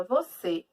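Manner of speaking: "você" with the weight on "cê"; stress on last syllable. Shown as a demonstration. Teacher asking which syllable is stronger, stress on last syllable. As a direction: lean on the final "cê" of "você". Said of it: "qual é a mais forte?".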